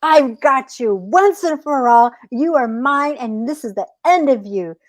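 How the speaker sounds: lightly voiced triumphant coyote; menacing coyote. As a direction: pounce on the words as the captor.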